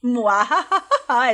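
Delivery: mustache twirling villain. Acted. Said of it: "Trazendo o callback".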